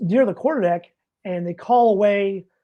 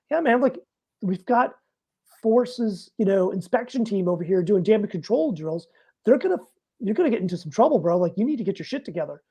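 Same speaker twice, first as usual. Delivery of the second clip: mock rising irritation. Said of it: "should have had better control of my emotions".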